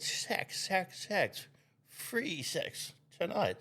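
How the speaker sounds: put-on caricatured Chinese girl with an Asian accent; mock Asian accent. Chinese girl answering in a joke, mock Asian accent. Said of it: "your Asian accent was so amazing".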